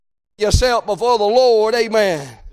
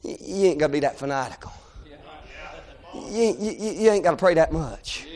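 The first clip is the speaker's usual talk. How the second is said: hushed discouragement; 6 semitones lower, 7 dB quieter than usual. Acted. Acts crowd discouraging the men.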